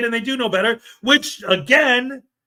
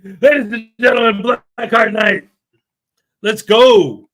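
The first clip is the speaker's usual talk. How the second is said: announcer's call; 5 dB louder than usual. Real, not acted. Announces a name, then rallies.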